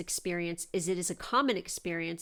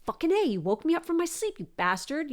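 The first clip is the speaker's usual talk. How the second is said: mock angry grumble; 8 semitones higher than usual. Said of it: "I was getting mad".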